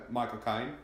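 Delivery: lightly attempted British accent; a touch of mock British. Shown as a demonstration. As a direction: say the name as a Brit would. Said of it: "say Michael Caine in a British accent".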